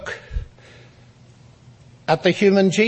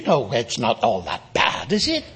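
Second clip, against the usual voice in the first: low, softened reassurance with a lifted tag question; gently placate, dropping low, then lilt up at the end; acted-out soothing aside, pitched low; mock soothing; 8 semitones lower, 4 dB quieter than usual. Placating an irritated dinner companion.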